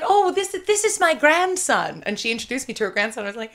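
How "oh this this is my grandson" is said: put-on high, slow old lady; a slow, higher grand dame; gracious old lady voice. Quoting Angela Lansbury introducing her grandson, higher and slow. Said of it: "she was like".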